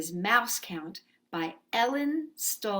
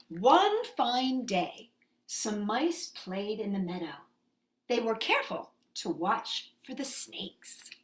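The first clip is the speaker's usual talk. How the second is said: storybook reading. A narrator's reading. Teacher reading Mouse Count to children, storybook voice. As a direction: gently read to little ones. Reading a picture book aloud.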